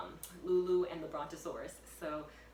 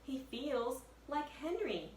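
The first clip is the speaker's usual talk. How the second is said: put-on eager girl; 7 semitones higher than usual. Annie voiced, tender.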